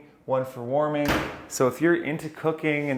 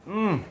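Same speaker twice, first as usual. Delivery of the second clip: appreciative hum; 7 semitones higher than usual. Real, not acted. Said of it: "I wish you could smell this".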